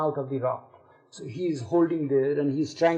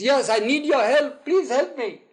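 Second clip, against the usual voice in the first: higher, louder mock plea; acted-out desperate appeal, raised in pitch; urgent pleading; 8 semitones higher, 4 dB louder than usual. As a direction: beg for rescue as the stranded climber. Stranded climber begging God for rescue.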